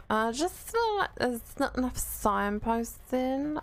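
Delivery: slow, drawn-out repeat of her own line; mock drawl. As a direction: stretch it out like you're taking the piss. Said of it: "I don't know why I said it like that on that day".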